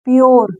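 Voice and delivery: "प्योर" spoken as a model, ending in "-yor"; teacher's clear demo of "प्योर", o before the r; "ure" read as "or". Shown as a demonstration. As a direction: say "प्योर" with U-R-E as an "or" sound. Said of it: "इसको क्या पढ़ रहे हैं".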